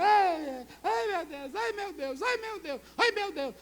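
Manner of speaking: hammed-up lament of hired mourners; mock wailing.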